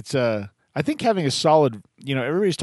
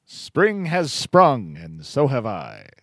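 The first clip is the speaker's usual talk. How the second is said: slow, drawn-out mock recital; grandly slowed quotation; recited line; much slower than usual. Host recites a remembered line.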